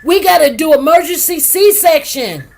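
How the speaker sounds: dramatic retelling of sudden bad news; urgent retold announcement. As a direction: announce an emergency, stretching the first words. Retells doctor's alarming announcement.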